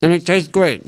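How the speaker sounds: talking through a mouthful of biscotti; words round a bite of cookie; mouth full. Real, not acted. Chewing biscotti on camera, talking with mouth full. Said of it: "I'm talking with food in my mouth".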